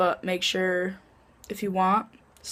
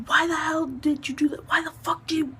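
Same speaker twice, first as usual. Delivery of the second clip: whispered, higher mom voice; hissed scolding mom; 7 semitones higher than usual. Retold or imitated. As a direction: scold your daughter in a sharp whisper.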